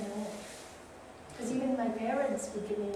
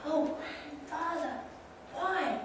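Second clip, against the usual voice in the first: put-on child's question; 5 semitones higher, 4 dB quieter, slower than usual. Children asking grandfather in story.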